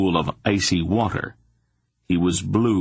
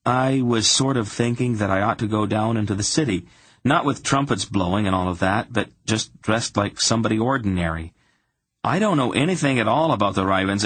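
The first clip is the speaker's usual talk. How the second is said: lightly raised, hesitant character voice; tentative young hero; 4 semitones higher than usual. Acted. Garion proposing an outing to Silk, mildly tentative. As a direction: float the idea in a slightly higher voice.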